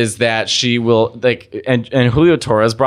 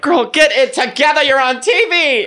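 higher, mock-scolding; sassy self-quote; 13 semitones higher than usual. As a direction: tell her off like a bossy friend. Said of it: "I'm like".

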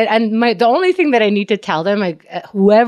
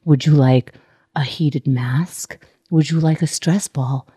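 mock soothing staff; 5 semitones lower than usual. Staff offering comfort menu.

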